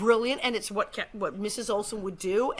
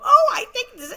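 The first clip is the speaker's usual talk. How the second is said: mock recognition; 13 dB louder than usual. Acts out listener's delighted recognition.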